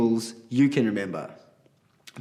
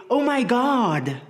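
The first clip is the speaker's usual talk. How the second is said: a high, slow, dragged-out "Oh my God"; mock gasp of someone careless; exclaiming; 9 semitones higher, slower than usual. Child hearing someone take God's name in vain, high and drawn out. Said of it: "have you ever heard someone say".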